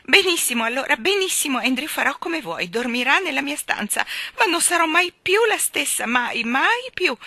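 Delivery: high, loud, overwrought giving in; shrill surrender. A narrator's reading. Miss Lark giving in to her dog's demands, crying out. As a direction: give in dramatically, loud and high, nearly wailing. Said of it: "strillò Miss Lark".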